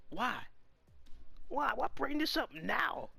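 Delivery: fed up, pleading with the story; exasperated outcry. Real, not acted. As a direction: drag out each why in frustration. Frustrated rant about the rule.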